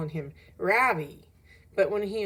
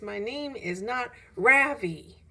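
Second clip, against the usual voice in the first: imagined shout; 4 semitones higher, 6 dB louder, slower than usual. Retold or imitated. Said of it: "shout at the top of my voice".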